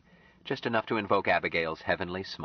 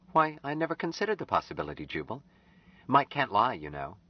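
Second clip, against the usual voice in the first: put-on higher young woman's voice, taken aback; surprised, defending Mike; lightly startled young woman; startled Anne; 5 semitones higher than usual.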